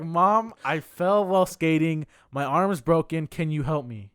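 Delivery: exasperated plea. Retold or imitated. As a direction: re-enact pleading with mom to listen. Retold exasperated plea to mom.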